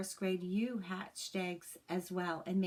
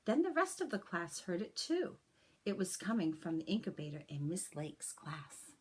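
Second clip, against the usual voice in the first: put-on gentle, expressive read-aloud for children; story narration. A narrator's reading. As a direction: read it like a teacher sharing a picture book with the class. Reads a picture book to class.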